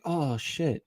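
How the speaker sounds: quiet, deflated mock disappointment; disappointed. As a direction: imitate someone let down, softly. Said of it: "so disappointed".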